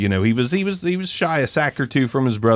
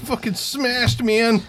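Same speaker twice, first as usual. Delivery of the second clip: much higher, squeaky repeat; high mock squeal; 12 semitones higher, slower than usual.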